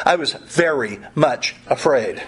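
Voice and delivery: "very" and "much" set apart, word by word; stress on VERY MUCH. Shown as a demonstration. Preacher correcting a weaker reading, stress on "very much". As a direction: weigh each word of "very much afraid". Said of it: "It doesn't say he was much afraid".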